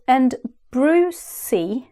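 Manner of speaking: "Brucey" said slowly and carefully, like BROO-see; saying a name slowly. Shown as a demonstration. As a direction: draw out "Brucey" as a new word. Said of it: "Brucey didn't make a word".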